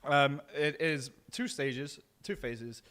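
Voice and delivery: talking through a burning mouthful; slow words around hot chili; mouth full. Real, not acted. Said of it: "very hard to talk with my mouth full on fire".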